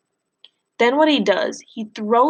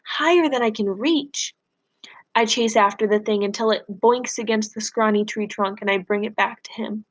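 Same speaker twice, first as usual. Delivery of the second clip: steady read-aloud storytelling for class; story narration. A narrator's reading. Teacher reading Freak the Mighty aloud to class, plain storytelling. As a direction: read the novel to the students, even and clear.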